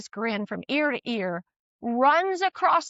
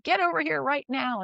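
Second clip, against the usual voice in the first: stern; 4 semitones higher than usual. Retold or imitated. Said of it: "got real stern and said".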